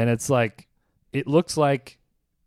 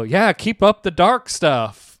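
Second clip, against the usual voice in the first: mock egging-on; 3 semitones higher, much slower than usual. Acts out crowd egging comic on.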